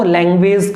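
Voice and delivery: language ending in a long "vayz"; common mispronunciation. Shown as a demonstration. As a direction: demonstrate the faulty "lang-VAYZ". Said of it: "लैंग्वेज कभी भी इसका pronunciation नहीं है".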